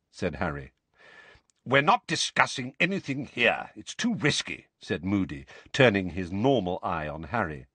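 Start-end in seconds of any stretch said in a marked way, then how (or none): 1.6-4.7 gruff warning. Acted. Moody warning Harry, gruff voice.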